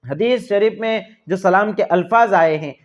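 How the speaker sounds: ordinary talk, nothing marked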